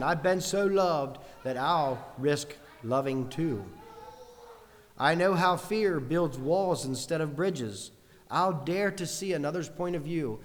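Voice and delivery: slow, emphatic poetic reading; deliberate pulpit recitation of a verse; reciting hymn lyrics. Acted. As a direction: declaim each line with measured conviction.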